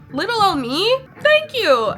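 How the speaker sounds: mock humble. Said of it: "I'm just like".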